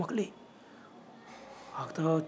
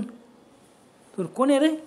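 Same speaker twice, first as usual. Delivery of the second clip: stretched-out high call, much louder and slower; 7 semitones higher, 5 dB louder, much slower than usual. Acted. Nanabhau calls to the stranger on the road, loud and drawn out. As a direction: call out slowly and loudly into the dark.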